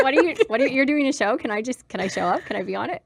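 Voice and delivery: mock over-eager asking; eager pleading. Co-founder acting out asking to be on the show, eager. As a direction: pester excitedly to be let in.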